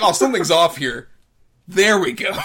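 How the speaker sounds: loud hammed-up self-satisfied voice; mock villain thought. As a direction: play the smug villain fixing his unibrow. Mocking the villain's inner thought.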